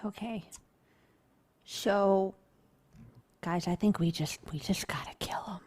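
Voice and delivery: conspiratorial whisper. Real, not acted. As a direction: hush it like plotting a murder. Players plotting a murder quietly.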